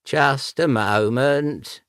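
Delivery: called over the shoulder; calling out. Acted. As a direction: call back toward the door. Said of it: "he called over his shoulder".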